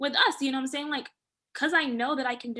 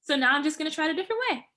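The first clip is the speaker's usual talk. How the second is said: higher-pitched, matter-of-fact self-talk; neutral, open self-talk; 5 semitones higher, 3 dB louder than usual. Acted. Woman talking herself past a failed method, neutral and open. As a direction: lift it lightly, open to possibilities. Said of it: "You can hear the different tone in her voice".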